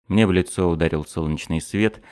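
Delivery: plain reading voice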